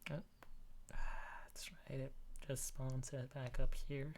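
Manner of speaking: whispered aside to yourself. Real, not acted. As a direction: breathe the words, no voice. Muttering to self while drawing.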